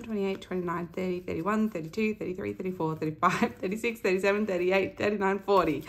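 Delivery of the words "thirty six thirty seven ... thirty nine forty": winded after a long count; out of breath. Real, not acted. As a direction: push through the last numbers short of air. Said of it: "I am out of breath".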